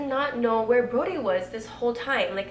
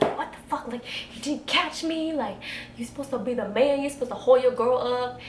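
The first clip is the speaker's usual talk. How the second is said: mock-indignant, pitched up; retold annoyance; 3 semitones higher than usual. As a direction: replay an outraged inner rant. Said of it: "so pissed".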